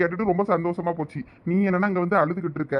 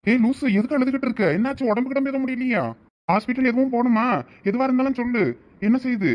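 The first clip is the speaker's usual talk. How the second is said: high-pitched, anxious concern; alarmed husband, pitch raised; worried questioning; 6 semitones higher than usual. Acted. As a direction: press the crying wife with worried questions. Husband finds wife crying.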